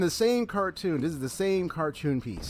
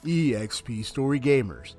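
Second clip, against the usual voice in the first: lightly mimicked sports-game brand tagline; a hint of announcer slogan voice; 2 semitones lower than usual. Gamer mimicking the EA Sports slogan, announcer style. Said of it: "E A Sports be like".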